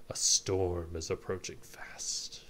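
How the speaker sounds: slow, understated foreboding; a touch of dark prophecy, slowly; ominous warning. Acted. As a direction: warn gravely, drawing it out. Character gives an ominous warning.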